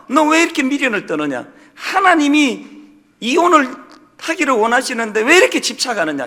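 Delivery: mildly heated mock telling-off; retold scolding. Deaconess berating a wife for clinging to her marriage, retold scolding. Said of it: "막 야단을 치면서".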